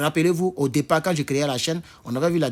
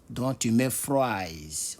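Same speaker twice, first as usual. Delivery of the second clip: lent et appuyé; 3 semitones lower, 5 dB quieter, much slower than usual. Shown as a demonstration. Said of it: "parce que c'est au pluriel".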